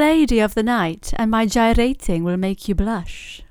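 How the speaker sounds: measured riddle recital with slight lilt. Acted. Host finishes the riddle for guests in riddle voice. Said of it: "That's her riddle voice".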